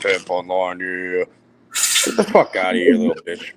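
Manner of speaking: light mock of Paul; a hint of Paul's voice, teasing; Paul impression. The speaker parodying Paul for the group, light teasing impression. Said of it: "he's doing a wonderful impression".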